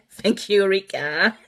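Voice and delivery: thanks with a laugh in it. Real, not acted. Thanking a viewer for a compliment, laughing.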